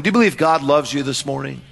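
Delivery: usual speaking voice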